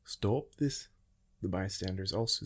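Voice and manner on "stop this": higher, shouted command to stop; yelling. A narrator's reading. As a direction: yell at the duelers. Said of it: "started yelling at them".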